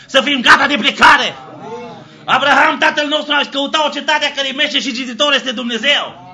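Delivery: ordinary delivery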